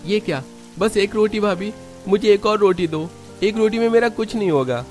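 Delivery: high-pitched indignant demand; put-out son-in-law kicking up a fuss; indignant complaint. Acted. Son-in-law demands more roti.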